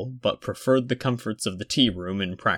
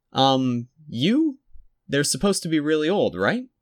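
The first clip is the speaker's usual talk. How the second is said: put-on high small boy's voice; a polite little boy calling out; child's voice; 7 semitones higher, 4 dB louder than usual. A narrator's reading. Small boy at reception, high and polite.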